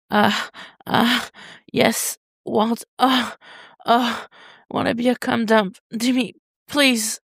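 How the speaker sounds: high, breathy-free whimpers with a slow pleading end; high whimpering plea; whimpering young lover. Acted. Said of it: "Tim whimpers and nods".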